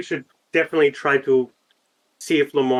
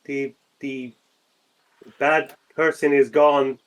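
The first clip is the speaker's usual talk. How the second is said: measured call with drawn-out words; slow, careful call-out; 2 semitones higher, slower than usual. Acted. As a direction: call gently to someone in hiding. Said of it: "I'll call out".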